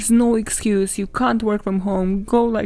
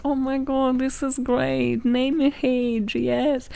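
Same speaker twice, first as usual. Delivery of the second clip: mock teacher praise; 3 semitones higher, slower than usual. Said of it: "the teachers would be, like, encouraging them".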